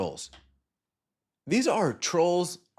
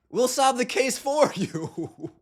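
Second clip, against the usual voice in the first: laughing, slow; 6 semitones higher, slower than usual. Real, not acted. Mocking the league's investigation.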